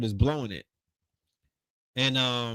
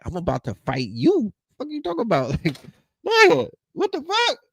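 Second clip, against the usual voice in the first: high, loud threat through a laugh; half-laughing pretend rage; mock fury; 7 semitones higher, 3 dB louder than usual. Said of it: "I'm like".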